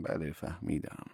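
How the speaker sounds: listless. Acted. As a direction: answer with no energy. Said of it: "بی حال پاسخ دادم".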